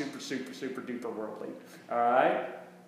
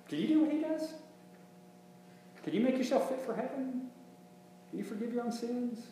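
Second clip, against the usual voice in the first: much higher, softer probing questions; rhetorical challenge; 9 semitones higher, 7 dB quieter than usual. Acted. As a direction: press each question up high and searching. Preacher fires rhetorical questions.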